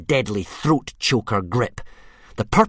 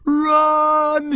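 much higher, louder urgent yell; shout; 6 dB louder than usual. Acted. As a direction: scream a warning to your friends. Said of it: "shouted Hiccup".

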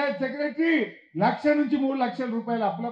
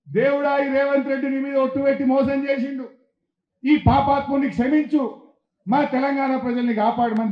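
retold prayer; 5 dB louder than usual. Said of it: "నేను దేవుని దగ్గర పోయినా".

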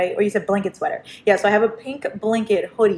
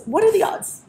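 rising sing-song; 11 semitones higher than usual. Acted. Repeats line, second take sung high.

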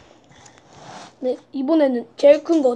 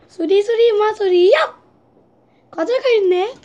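magician voice; 6 semitones higher, 4 dB louder than usual. Pretend. Child performs magic trick.

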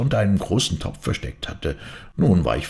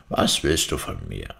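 a spirit's low question from the dung heap. A narrator's reading. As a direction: voice the spirit deep and eerie. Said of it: "Er kam und fragte".

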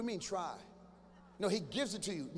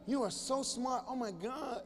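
hammed-up fawning flattery, slow and cooing; mock adoring girlfriend; much slower than usual. Young woman flattering a man to win him. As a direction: gush over him like he's a genius. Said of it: "women know how to set you up".

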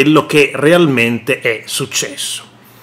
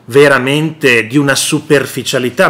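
exasperated Crosetto; 4 semitones lower than usual. Retold or imitated. Minister dismissing the left, low weary exasperation. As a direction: sound worn out by the other side. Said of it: "Ma Crosetto dice".

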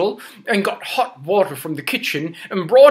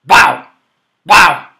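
dog bark; 2 semitones lower, 11 dB louder than usual. Shown as a demonstration. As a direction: show the kids the bark. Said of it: "Can you say that?".

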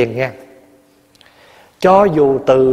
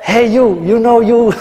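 high, slow, laughing hey you; teasing phone greeting to the husband; mock phone call; 8 semitones higher, 5 dB louder, slower than usual. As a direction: ham up a silly call to the husband.

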